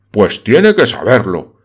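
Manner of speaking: loud, exasperated insistence; beside himself. Acted. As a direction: force it on her, fuming. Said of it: "completamente fuera de sí".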